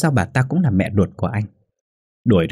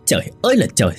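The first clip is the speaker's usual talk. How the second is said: restrained angry growl from the son; acted roar without much volume; exasperated roar; 4 semitones higher, much faster than usual. A narrator's reading. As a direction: growl it out, fed up. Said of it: "Kha gầm lên".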